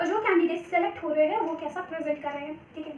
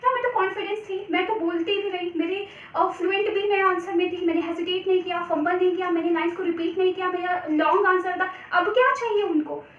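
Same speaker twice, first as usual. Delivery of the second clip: mock candidate complaint; 3 dB louder than usual. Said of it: "वो बिल्कुल यही सोचते हैं".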